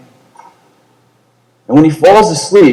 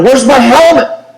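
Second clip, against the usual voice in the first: wounded soldier yelling for his helmet; confused yelling; 8 semitones higher than usual. Retold or imitated. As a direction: call out frantically on waking. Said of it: "he starts yelling".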